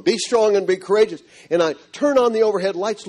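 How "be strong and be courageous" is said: a bit higher, the words ringing back; echoing voice. Retold or imitated. A man recalls the verse echoing back in his room. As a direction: let the verse echo around the room. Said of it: "and it echoes in the room".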